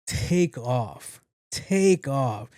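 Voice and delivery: grinning. Retold or imitated. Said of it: "With the biggest smile on my face".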